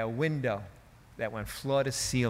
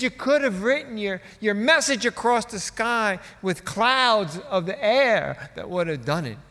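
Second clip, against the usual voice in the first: E V Hill; 8 semitones higher, 7 dB louder than usual. Retold or imitated. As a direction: fill a stadium, then drop down at the end. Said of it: "He was booming".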